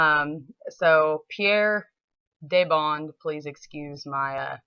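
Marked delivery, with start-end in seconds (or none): 1.3-3.1 Southern accent. Real, not acted. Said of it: "terrible Southern accent while trying to pronounce your name".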